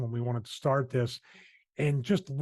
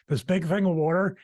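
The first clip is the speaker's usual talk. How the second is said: Philadelphia accent on water, said like wooder; Philly accent; 5 semitones higher, 5 dB louder than usual. Shown as a demonstration. Host showing off his Philly accent to co-host. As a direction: lean into the Philly vowel in water. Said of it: "that's my Philly accent".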